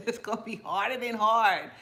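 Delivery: laughing through the words. Real, not acted. Vlogger laughing to viewers about losing sleep, laughing. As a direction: chuckle it out as you say it.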